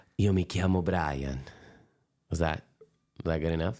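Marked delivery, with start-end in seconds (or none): 0.2-1.4 attempted, imperfect Italian accent. Speaker retries an Italian accent after the other speaker doubts it; Italian accent attempt. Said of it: "Let me let me do it again".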